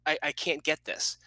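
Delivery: hushed, halting, lightly tearful retelling; imitating tearful daughter. Daughter stuck on long division tells her father, mildly tearful. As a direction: gently act a child struggling to get words out. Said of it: "I could see the tears".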